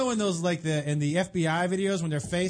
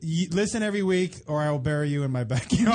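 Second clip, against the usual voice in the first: psychotic person voice; 3 semitones lower than usual. Retold or imitated. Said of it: "in the psychotic person voice".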